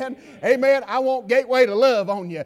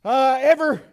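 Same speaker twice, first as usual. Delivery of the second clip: louder, higher, slow shout; preaching shout; 5 semitones higher, 7 dB louder, slower than usual. Acted. Preacher shouting John three sixteen to the church. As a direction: hammer the verse out.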